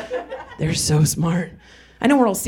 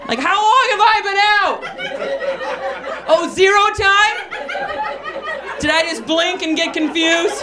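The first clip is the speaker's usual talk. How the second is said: dazed confusion; 11 semitones higher than usual. Retold or imitated. Dazed after falling on sidewalk.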